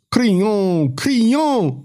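high, urgent calling of a name; roaring. A narrator's reading. Larchon hailing Crillon over the talk, roaring. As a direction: call out high, rising on the repeat. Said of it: "răgnea Larchon".

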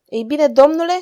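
animated royal inquiry; lively. A narrator's reading. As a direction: ask eagerly for the report. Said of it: "întrebă cu voiciune regele".

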